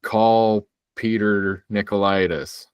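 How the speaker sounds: slow, spaced-out voice command; slow demonstration. Shown as a demonstration. User showing the command Siri wouldn't take, slow and deliberate. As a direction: give the phone the name slowly, word by word. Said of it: "I couldn't say".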